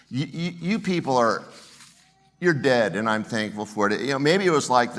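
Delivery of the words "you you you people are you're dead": blunt mock threat. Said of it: "Or is it".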